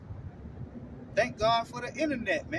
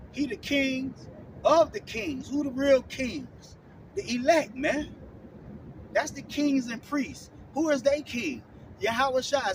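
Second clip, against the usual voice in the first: preaching; 2 semitones higher, slower than usual. Real, not acted. Street preacher declaring to listeners, slow and emphatic. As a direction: lay each word down like a proclamation.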